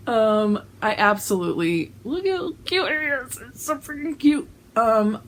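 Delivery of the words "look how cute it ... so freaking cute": gushing. Real, not acted. Gushing over shirt design.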